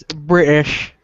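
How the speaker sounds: "British" drawn out slowly, the T dropped. Shown as a demonstration. Coaching a friend's British accent, "British" with the T knocked out. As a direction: say "British" slowly with a catch in place of the T. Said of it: "there is no T".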